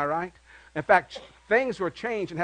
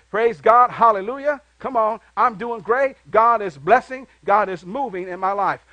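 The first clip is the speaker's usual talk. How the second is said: praise despite hardship; 3 semitones higher, 7 dB louder than usual. Retold or imitated. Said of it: "we still say".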